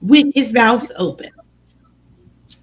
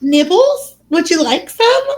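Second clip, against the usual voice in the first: sly Peeves voice; 8 semitones higher than usual. Retold or imitated. Peeves offering fungus peanuts.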